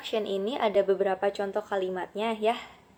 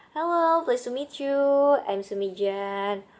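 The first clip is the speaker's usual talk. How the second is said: voicing speaker B; 3 semitones higher, 6 dB louder, slower than usual. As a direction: answer like a pleased new friend. Speaker B answers. (si B menjawab keras dan ceria)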